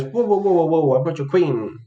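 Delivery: protesting opponent. Acted. Opponent objecting after the check, mock protest. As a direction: halt them with a mildly mocked protest.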